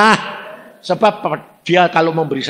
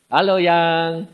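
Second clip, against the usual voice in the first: higher, sing-out hello to a spouse; lightly voiced wife greeting her husband; wife's amused greeting; 4 semitones higher, slower than usual. Wife greets husband home from his trip, amused. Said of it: "Istri saya nyambut gini sambil ketawa-ketawa".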